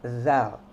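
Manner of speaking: "zal" like voiced th; emphatic dental "zal"; tongue between teeth. Shown as a demonstration. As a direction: buzz "zal" on a bitten tongue. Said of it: "seperti huruf Z tapi lidahnya digigit".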